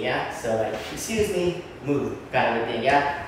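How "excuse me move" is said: polite excuse me. Shown as a demonstration. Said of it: "But not in a rude way".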